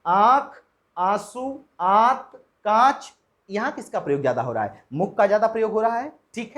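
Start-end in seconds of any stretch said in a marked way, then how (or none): 0.1-3.1 आँख, आंसू, आंत, कांच said slowly with nasalised vowels; pronunciation demo. Shown as a demonstration. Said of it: "अब देखें अंतर". (अनुनासिक शब्दों का धीमा उच्चारण)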